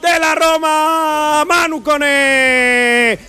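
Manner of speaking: slow, stretched goal call; spanish goal commentary. Real, not acted. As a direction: drag out the scorer's name.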